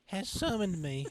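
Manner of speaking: hint of a pompous minion; lightly voiced herald. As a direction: proclaim it like a self-important servant. Character voice proclaiming.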